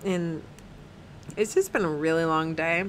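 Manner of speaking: sleepy, yawning through the words; tired talk on a yawn. Real, not acted. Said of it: "I'm sorry I keep yawning".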